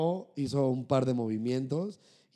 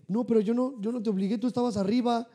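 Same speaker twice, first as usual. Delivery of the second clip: mock nervous pleading, pitched higher; 8 semitones higher than usual. Teen denies blame to crying girl, high nervous protest. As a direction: imitate his flustered teenage self, higher voice. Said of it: "Como todo nervioso".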